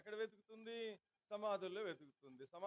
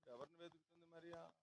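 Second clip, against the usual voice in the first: softer, musing question; hushed rhetorical question, softer; quiet repeat; 9 dB quieter than usual. Real, not acted. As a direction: ask it almost to yourself. Preacher repeats question to congregation.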